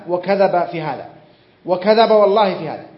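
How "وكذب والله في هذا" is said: louder indignant repeat. Acted. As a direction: punch وكذب, louder on the repeat. Preacher repeats denunciation with oath. (تكرار غاضب بصوت أعلى على "وكذب")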